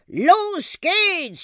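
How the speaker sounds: high, stretched whoop of departure; excited high-pitched launch cry; enthusiastic cry. A narrator's reading. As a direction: call it out gleefully as you take off. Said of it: "schrie er begeistert".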